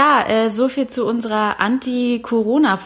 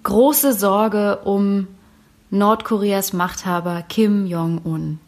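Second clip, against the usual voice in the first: slow dramatic headline read; news anchor voice; slower than usual. Acted. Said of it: "Ich fang mal an".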